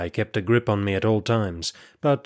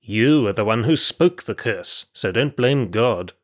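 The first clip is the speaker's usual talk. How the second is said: snarled; 4 dB louder than usual. Acted. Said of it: "snarled Kalai".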